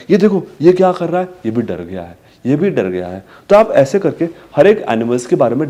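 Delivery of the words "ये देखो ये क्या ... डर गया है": bright question, hushed answer; talking to a toddler. Shown as a demonstration. Parent telling a child the animal got scared, hushed. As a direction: soften on the frightened animal. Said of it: "फिर".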